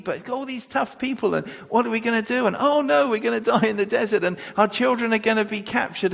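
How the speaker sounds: high, fast, fretful mock panic; hammed-up fearful complaining, rushing the words; panicky whining. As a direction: play the scared grumbling crowd. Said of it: "they started to say".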